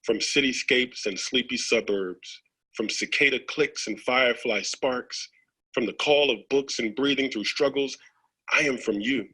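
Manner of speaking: steady, rhythmic recital; earnest spoken-word poem; poem reading. Acted. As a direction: roll through the list like a chant of roots.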